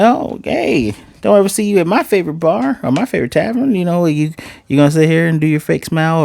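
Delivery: lightly acted barroom taunt; mock-friendly taunt. Taunting rival walks into the tavern.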